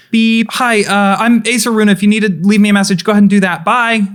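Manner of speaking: high, loud, hurried voicemail message; rushed voicemail greeting. Acted. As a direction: rattle off a quick answering machine greeting. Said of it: "a automated voice box that someone, like, was kind of rushing to set up".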